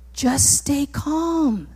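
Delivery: soft, drawn-out reassurance; calming. Acted. Moses trying to keep the people calm, softly soothing. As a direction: gently settle a nervous crowd. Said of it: "He was trying to keep the people calm".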